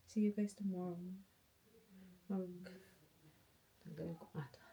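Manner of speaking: usual speaking voice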